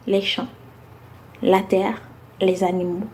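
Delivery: measured phrases set apart by deliberate pauses; spoken-word poem recital. Acted. Poet addressing listeners about submission for women's month, spoken-word recital. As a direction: recite it as slam poetry, building through the lists and settling on each closing line.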